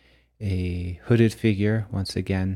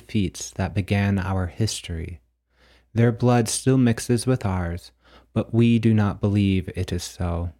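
measured, declamatory reading of mystical verse; deliberate recital with a pause after each statement; poetic book reading. Acted. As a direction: read it out like solemn poetry, line by line. Reads own poetic book text aloud.

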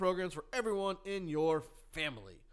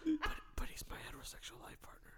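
breathless laughing whisper; 7 dB quieter than usual. Real, not acted. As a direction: say it through laughter. Laughing aside.

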